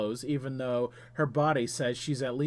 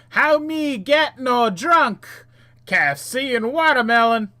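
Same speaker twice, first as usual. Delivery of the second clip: put-on dopey chat voice; 9 semitones higher, 11 dB louder than usual. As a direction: bellow it like a dim-witted player. Reads player chat in put-on voice.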